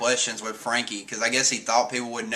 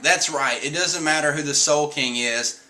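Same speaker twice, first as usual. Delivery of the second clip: a rock star count-in rising to a yell; Brook's excited shout; 3 semitones higher than usual. Retold or imitated. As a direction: hype the crowd into the count-in. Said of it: "then he's like".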